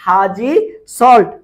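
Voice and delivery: mnemonic split in two, loud second word; emphatic dictation. Real, not acted. Teacher prompting students to comment the mnemonic, emphatic dictation. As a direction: punch out the last word after a pause.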